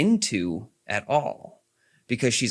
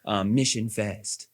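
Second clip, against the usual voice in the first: put-on slow, clipped British accent read; 2 semitones lower, slower than usual. Mock Miranda line in a slow British accent. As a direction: say it like a stiff British officer. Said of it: "That's my British accent".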